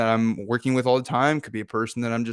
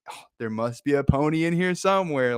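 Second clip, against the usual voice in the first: lightly voiced hopeful line, near own voice; a touch of the kid's delight; mild hopeful quote; 3 semitones higher than usual. Speaker re-quotes optimist line.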